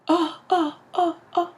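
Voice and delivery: high, short repeated ohs; little high-pitched oh-oh-oh of a man toppling; mock alarm. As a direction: act out a wobbly fall in high ohs. Acting out the man falling.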